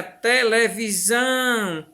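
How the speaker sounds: televisão slowly sounded out with a long "zão"; stressed final syllable. Shown as a demonstration. Teacher showing pupils an oxytone, televisão with drawn-out "zão". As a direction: stretch the last syllable of televisão. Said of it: "o zão".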